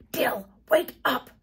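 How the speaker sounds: forceful, slow stage whisper; fierce whisper. A narrator's reading. Girl waking sleeping cousin, fierce whisper. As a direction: whisper hard and urgently. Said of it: "whispered Jody fiercely".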